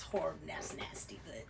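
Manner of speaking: hushed 'ew' under your breath; grossed-out whisper. Real, not acted. Reader reacting to snot running out, whispered disgust.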